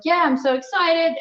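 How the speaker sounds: chirpy exclamation-point voice, lightly acted; mock text excitement. Retelling her excited text reply to the manager's contact, mock excited. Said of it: "talking like I'm texting".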